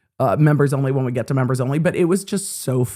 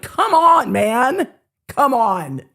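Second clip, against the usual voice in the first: playful urging; 7 semitones higher, much slower than usual. Retold or imitated. Urging husband to enjoy moment.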